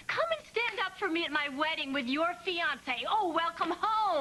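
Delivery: mocking the daughter's sweet invitation; sneering, sing-song mimicry; sarcastic quote. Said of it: "I don't wanna hear that sarcastic stuff".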